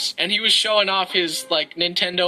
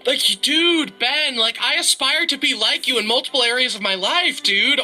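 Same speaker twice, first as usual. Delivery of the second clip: higher-pitched, gushing admiration; gushing fan; 4 semitones higher than usual. Acted. Playing a fan thanking the bird he idolizes, gushing. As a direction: gush like a starstruck fan.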